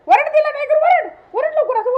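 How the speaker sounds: high-pitched insistent commands; excited egging-on. Pretend. Owner urging Tiger to bark at her, excited prodding. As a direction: goad the dog with high, urgent words.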